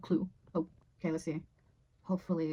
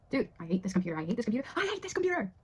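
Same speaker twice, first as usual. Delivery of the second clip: frustrated; 2 semitones higher, faster than usual. Real, not acted. Slow computer frustration.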